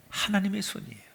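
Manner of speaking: whispered revelation, hushed; awed whisper. Real, not acted. Preacher to congregation, whispering the reveal. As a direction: let it drop to a hush.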